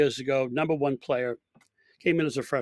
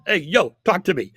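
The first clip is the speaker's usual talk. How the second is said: calling out; 4 semitones higher, 7 dB louder than usual. Retold or imitated. Coach calls player off green.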